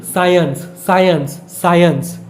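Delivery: साइंस as "sai-ens", said three times, firm; correct pronunciation repeated. Shown as a demonstration. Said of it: "इसको साइंस मत बोलना".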